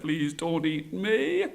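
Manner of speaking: slow, drawn-out mild plea; pleading. Acted. Brahmin begging the tiger not to eat him, pleading. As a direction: beg slowly for mercy. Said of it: "the Brahmin pleaded".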